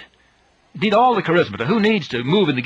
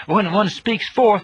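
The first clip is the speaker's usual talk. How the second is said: higher and slow, each word weighed; slow emphasis; 6 semitones higher, much slower than usual. Shown as a demonstration. Preacher drives home his teaching point, slow and emphatic. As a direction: draw out the point deliberately. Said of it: "Let me stress that point".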